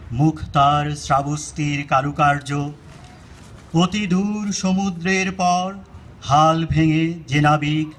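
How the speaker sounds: measured, lyrical Bengali verse reading; poetry recitation. Acted. Reciting the original Bengali poem to listeners, measured poetic recitation. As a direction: recite line by line, pausing between phrases.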